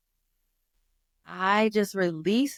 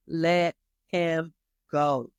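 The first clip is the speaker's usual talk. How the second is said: "Let Him Go" drawn out slowly, each word apart; slow, weighty title read; slow title reveal; much slower than usual. Shown as a demonstration. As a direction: spell out "Let Him Go" slowly like a sign from God. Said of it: "this last one, and it's a real movie".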